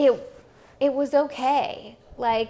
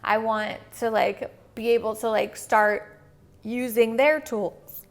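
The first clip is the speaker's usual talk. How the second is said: talking through the hiccups; words broken by hiccups; 3 dB louder than usual. Real, not acted. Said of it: "I have the hiccups".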